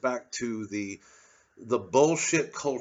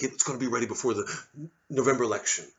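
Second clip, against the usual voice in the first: quick quote; faster than usual. Retold or imitated. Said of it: "say things like".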